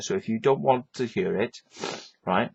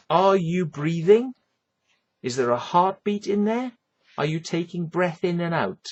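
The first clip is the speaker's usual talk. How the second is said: sarcastic questioning; 5 semitones higher, 4 dB louder than usual. Real, not acted. Sarcastic rant at people.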